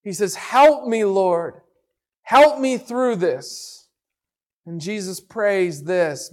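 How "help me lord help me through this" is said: mildly pleading prayer, pitched up on "help"; a touch of begging in prayer. Acted. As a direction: beg with restraint, falling at each end. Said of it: "pleading with God".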